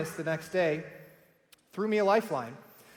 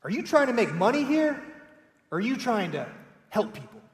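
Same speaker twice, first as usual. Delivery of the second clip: a hint of a condescending host, the question pitched up and pointed; mild imitation of a condescending interviewer's question; 4 semitones higher than usual. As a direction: lightly mimic a talk-show host talking down to a guest. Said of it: "In a very condescending tone".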